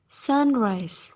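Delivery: sunrise with the stress on SUN; stress on first syllable. Shown as a demonstration. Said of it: "stress on the first syllable".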